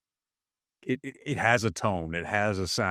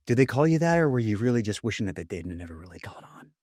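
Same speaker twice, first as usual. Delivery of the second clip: quick quippy Ryan Reynolds voice, ending in a whisper; Ryan Reynolds impression. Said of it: "We've gotta work on your Ryan Reynolds".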